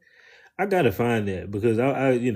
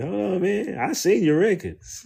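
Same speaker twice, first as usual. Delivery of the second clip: louder, higher, half-laughing callout; mock confrontation; 9 semitones higher, 6 dB louder than usual. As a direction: pretend to catch him out, grinning. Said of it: "I'ma flip it out on his ass".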